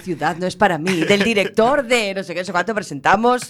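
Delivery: a hint of a trailer announcer; movie trailer voice. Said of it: "hacíamos como un tráiler de películas". (voz de tráiler de cine, apenas marcada)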